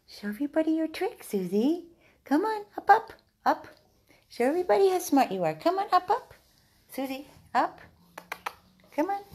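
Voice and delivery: very high, loud sing-song cheering; rally the dog to jump up; squealing high encouragement; excited pet coaxing. Real, not acted.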